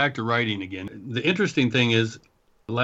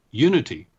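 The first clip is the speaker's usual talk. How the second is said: dreamy distant voice; 4 dB louder than usual. Acted. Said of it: "I repeated in an ethereal tone".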